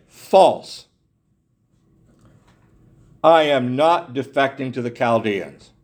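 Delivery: firm indignant denial, False hit hard; preacher voicing Jeremiah denying the defection, indignant. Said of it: "He was indignant".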